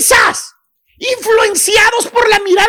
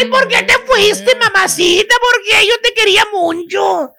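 mock crying son. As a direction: fake sobbing over a lost mother, half-joking. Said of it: "Ahí andan llorando".

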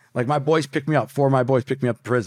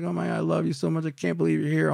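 imitated tearful joy; 4 semitones higher, 3 dB quieter, faster than usual. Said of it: "she's crying and I'm crying".

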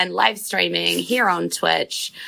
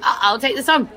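put-on surprised, grateful little kid; wholesome 1950s kid; 4 semitones higher than usual. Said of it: "And he's like".

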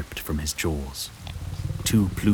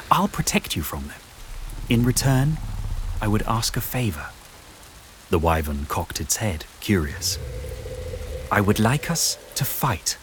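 put-on a bit higher, earnest girl's voice; lightly voiced young heroine; 4 semitones higher than usual. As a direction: reassure the beast, eager and sincere. Juliana voiced in story.

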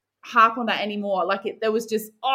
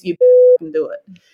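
loud, much higher burst of pressure; sudden high, loud self-yell; mock intense yell; 10 dB louder, faster than usual. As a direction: shout it at yourself like a drill sergeant. Self-pressure at Olympics, swearing.

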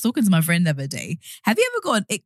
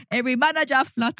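laughing; 8 semitones higher than usual. Pretend. Reciting lyric laughing.

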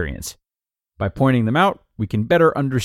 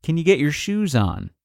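mildly raised pitch, patient repeat request; 4 semitones higher than usual. Acted. Parent trying again with a child, patient. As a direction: try again, keeping it patient. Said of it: "so you patiently try again".

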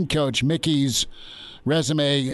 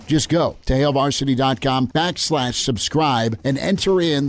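upbeat radio sponsor read, slightly louder; 3 dB louder than usual. Acted. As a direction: sell the subscription like a radio spot.

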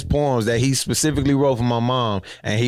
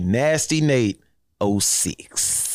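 mock sassy; 3 semitones lower, much slower than usual. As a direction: mimic his drawn-out "oh six", dropping the voice on "six". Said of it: "He was like".

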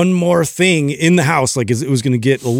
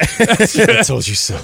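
mocking singsong; 4 semitones higher, much slower than usual. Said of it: "mocking phrase".

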